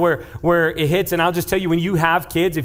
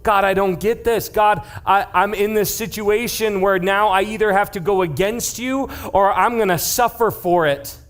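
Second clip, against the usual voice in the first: desperate prayer; 5 semitones higher than usual. Acted. Believer crying out to God in a crisis, intense pleading. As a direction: cry out like someone at the end of their rope. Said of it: "these panic, intense moments".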